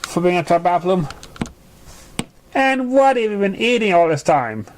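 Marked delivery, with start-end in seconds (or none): 2.5-4.7 lightly raised, concerned question; lightly voiced filly, a touch shocked; shocked friend. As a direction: ask her, worried.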